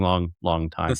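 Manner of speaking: "long" drawn out low before "time"; stress on long. Real, not acted. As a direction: stretch each "long", sinking in pitch. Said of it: "emphasis on long".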